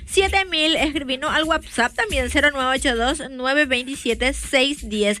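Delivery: ad read. Acted. Host reads live pharmacy ad.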